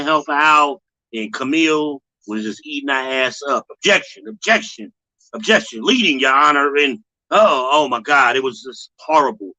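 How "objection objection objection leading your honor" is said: mock lawyer objecting. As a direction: rattle off objections like a mocking lawyer. Mocking the lawyer's repeated objections.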